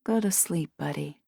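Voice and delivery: soft, drowsy mumble; sleepy mumble. A narrator's reading. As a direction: mumble it half asleep. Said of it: "she tapped the cat and mumbled".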